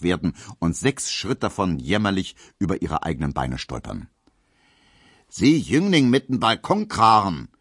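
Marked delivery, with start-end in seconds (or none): 5.3-7.5 put-on loud jeering yell at the young man; raised mocking shout. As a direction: bellow it across the dance floor. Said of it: "schreit Gustav Schmelow".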